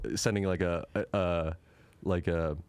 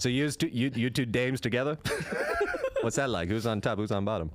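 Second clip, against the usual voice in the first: put-on old-time director. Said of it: "This accent".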